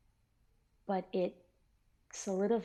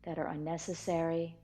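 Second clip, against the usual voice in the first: calm, measured meditation instruction; steady meditation-teacher voice with pauses between phrases; guided meditation; 3 dB louder than usual. Real, not acted. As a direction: guide listeners step by step into settling and relaxing.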